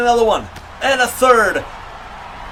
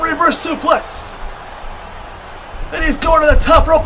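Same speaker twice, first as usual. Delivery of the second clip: wrestling commentator. Real, not acted. Live wrestling play-by-play.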